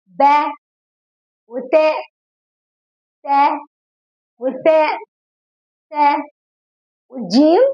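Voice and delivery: each letter sounded with a clear open a, like با and تا; drawn-out letter sounds. Shown as a demonstration. Teacher leading kids through letters, sounding each one with an open a. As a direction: stretch the fatha on every letter, slowly. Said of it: "طب يلا معايا".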